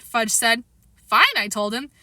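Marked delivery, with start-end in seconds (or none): 1.1-1.4 annoyed. A narrator's reading. Peter annoyed.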